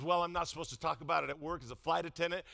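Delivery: leaning in confidentially. Retold or imitated. Flight attendant leaning in to the pastor, confiding softly. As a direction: share a secret close up. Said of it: "she leans in".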